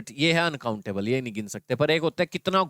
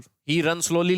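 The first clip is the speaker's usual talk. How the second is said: slow example; 2 semitones higher, 3 dB louder, much slower than usual. Shown as a demonstration. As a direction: read the example slowly. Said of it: "लिखते हो".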